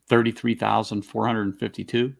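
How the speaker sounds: dry, sarcastic number. Acted. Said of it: "I'm being sarcastic".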